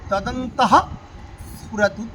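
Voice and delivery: তদন্তঃ, pause, স্ফুরতু, each said separately; broken into words. Shown as a demonstration. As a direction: keep তদন্তঃ and স্ফুরতু apart, with the breath on ঃ. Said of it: "আমি ভেঙে ভেঙে বলছি". (তদন্তঃ স্ফুরতু আলাদা করে বলা)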